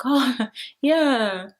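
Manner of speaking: mock uneasy laughing yes; a hammed-up awkward chuckle of agreement. Tony humouring Yaz, mock awkward laughing yes. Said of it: "she even looks at her a bit like".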